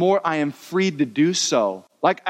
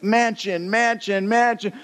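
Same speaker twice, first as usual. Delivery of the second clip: rising higher with each mansion, amazed; awed wonder; 5 semitones higher, slower than usual. Retold or imitated. Newly arrived man marvelling at heaven's mansions, awed. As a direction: gawk at each mansion as you pass.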